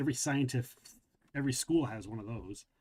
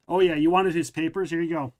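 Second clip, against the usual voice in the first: loud, raised, scornful offer; angry sarcasm; 4 semitones higher, 8 dB louder than usual. Acted. Ronnie angrily throwing stuff, hands over the papers, angry sarcasm. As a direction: fling it at Dad in a temper. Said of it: "Now it's much more angrily".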